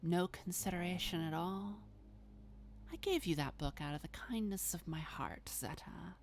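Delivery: lightly voiced vampire, mildly reproachful; a touch of wounded reproach, trailing off softly; Babs. Malkavian reproaches the friend given a book, mildly wounded.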